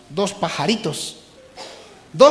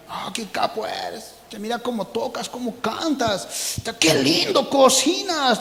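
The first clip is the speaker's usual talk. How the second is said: mock flattery; 4 semitones higher than usual. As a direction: coo the compliments, laying it on thick. Mocking flatterers' praise. (halago meloso y burlón)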